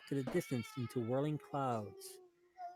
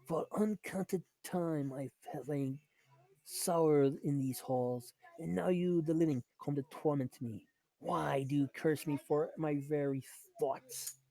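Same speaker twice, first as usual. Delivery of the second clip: ghost voice. Acted. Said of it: "a ghostly voice seems to whisper in your ear".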